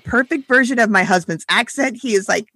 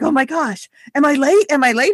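higher-pitched mock panic of a son; freaking out; 5 semitones higher than usual. Youngest son coming down fearing he overslept, mock freak-out. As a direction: imitate a kid freaking out, pitch raised. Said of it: "freaking out".

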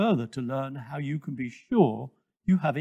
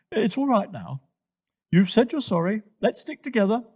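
raised, lightly voiced reassurance; forgiving Twigger the giraffe; 6 semitones higher, 3 dB louder than usual. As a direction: encourage a sorry youngster, pitched high.

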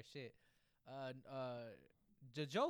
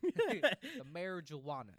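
drawn-out, louder mock pronunciation; mock-dramatic; 2 semitones higher, 8 dB louder, much slower than usual. Co-host riffing on weed with his friend, mock-dramatic. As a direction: stretch out "marijuana" for comic effect. Teasing echo of mispronounced weed word.

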